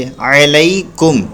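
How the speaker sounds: अलैकुम slowly, ऐन and लाम not stretched; slow tajweed reading. Shown as a demonstration. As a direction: read अलैकुम slow, with short vowels. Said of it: "ऐन ज़बर आ पढ़ेंगे".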